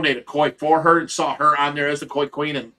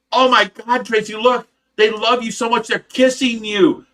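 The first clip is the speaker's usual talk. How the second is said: high and louder, gushing over the fish; mock amazement; 7 semitones higher, 5 dB louder than usual. Husband coaxing wife in the pool, gushing high. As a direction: hype her up, slowing on the last words.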